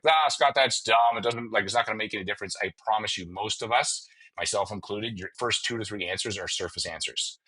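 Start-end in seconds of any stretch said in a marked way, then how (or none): 0.0-2.6 mock skeptical listener. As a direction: scoff at the idea like a skeptic. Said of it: "most of you are like".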